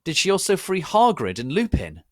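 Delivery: loud, high furious shout; hammed-up angry yell. A narrator's reading. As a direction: yell it in outrage. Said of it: "I shouted angrily".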